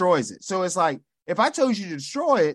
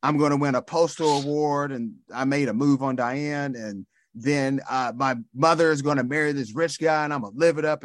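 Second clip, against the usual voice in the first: mock Cliff bragging; 4 semitones lower than usual. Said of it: "his stories are always".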